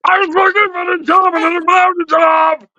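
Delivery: mock shouted crooner; impression of a singer. Host mocking singers for friends, shouted mock singer. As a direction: belt it like a parody of a singer.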